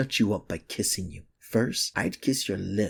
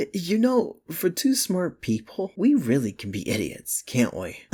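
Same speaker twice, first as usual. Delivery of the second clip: laughing disbelief; 8 semitones higher, 5 dB louder than usual. Real, not acted. Laughing at both of them.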